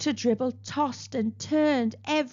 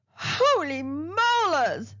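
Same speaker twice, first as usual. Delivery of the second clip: mild mock shriek; 6 semitones higher, slower than usual. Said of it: "Doctor Dribble shrieked".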